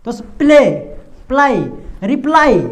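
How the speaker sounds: प्ले, प्लाई, रिप्लाई built up syllable by syllable; pronunciation demo. Shown as a demonstration. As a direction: sound out रिप्लाई step by step. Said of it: "देखिए रिप्लाई जो एक ये जो word है". (रिप्लाई को टुकड़ों में बोलकर समझाना)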